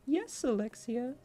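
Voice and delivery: high, slow, ardent reply; passionate. Acted. Alfred vows to his beloved sister, passionate. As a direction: draw it out high with fervor. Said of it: "he said passionately".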